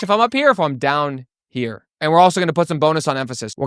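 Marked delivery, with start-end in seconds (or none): 0.0-0.5 raised up into a higher register; high pitch. Shown as a demonstration. Coach demonstrating pitch to students, up high. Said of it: "We're gonna talk about pitch". 0.5-1.8 dropped down, slower and lower; low pitch. Shown as a demonstration. Coach demonstrating pitch to students, down low. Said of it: "We're gonna talk about pitch".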